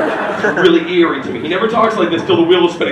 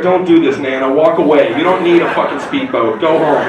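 pleading with Nana; 5 semitones lower than usual. Retold or imitated. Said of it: "You're already at home scared".

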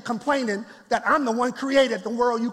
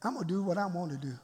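God's blunt reply; 5 semitones lower, 10 dB quieter, much faster than usual. Retold or imitated. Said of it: "when God just say".

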